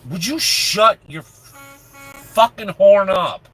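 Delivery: drawn-out, loud, high yell at a honker; slow down and raise it in real irritation; exasperated yell. Real, not acted. Yelling at honking truck mid-sentence.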